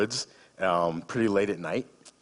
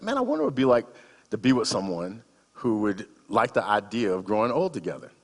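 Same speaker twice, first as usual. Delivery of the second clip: wistful musing; 2 semitones higher than usual. Retold or imitated. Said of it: "I thought to myself this question".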